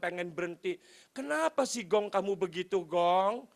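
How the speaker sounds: feigned concern. Retold or imitated. Boss to departing driver, feigned concern. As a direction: act mildly dismayed that he's leaving. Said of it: "Saya ngomongnya gitu".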